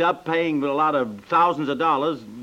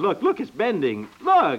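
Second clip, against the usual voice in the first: excited amazement; 6 semitones higher, slower than usual. Acted. Husband sees stick bend.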